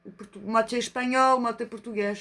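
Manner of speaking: put-on playful half-Spanish, half-Portuguese accent; French with Iberian accent; mock Spanish-Portuguese accent. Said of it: "avec l'accent espagnol".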